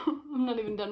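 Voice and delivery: tired laugh through the words. Real, not acted. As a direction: laugh at yourself while complaining. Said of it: "I'm exhausted".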